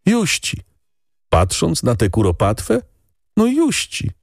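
put-on high, tearful village boy; peasant boy. A narrator's reading. Boy tells the lady, high and tearful. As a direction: speak as a guilty little shepherd boy.

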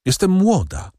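gentle reply, lifted in pitch. A narrator's reading. Haide answers the count about her life, gently. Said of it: "odpowiedziała łagodnie".

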